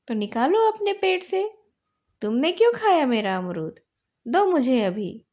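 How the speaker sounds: put-on boy angrily demanding his guava back. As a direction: insist he gives it back now. Boys quarrel over the guava.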